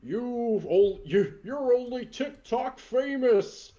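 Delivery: slow, booming Santa taunt; lightly voiced burly Santa; Santa promo. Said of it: "Santa crosses his arms".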